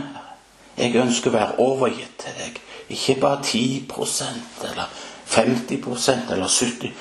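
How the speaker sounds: heartfelt spoken prayer; earnest prayer. Acted. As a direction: pray it aloud, surrendering. Prays aloud to God.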